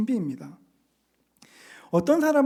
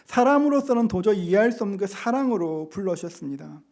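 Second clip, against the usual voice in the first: ordinary talk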